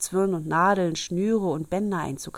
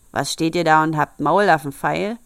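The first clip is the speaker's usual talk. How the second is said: loud angry dwarf; dwarf shouting; 2 semitones lower, 6 dB louder than usual. Acted. Dwarf shouting at the girls staring at his jewels, loud. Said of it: "schrie der Zwerg".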